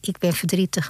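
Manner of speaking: sorrow falters over the words, understated; broken voice. Acted. Sorrow tells the old woman it is sad, lightly broken. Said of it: "met een gebroken stem".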